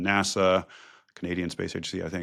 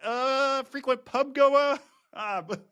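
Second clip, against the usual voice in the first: high, lilting mock Welsh accent; sing-song Welsh accent, played for laughs; 13 semitones higher than usual. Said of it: "I'm gonna use my Welsh accent".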